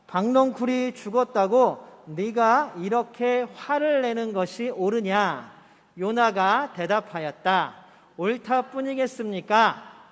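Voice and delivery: slow, deliberate Bible reading; slow, solemn recitation; scripture reading. Acted. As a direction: read each word out slowly with the congregation. Reading verses 9 aloud.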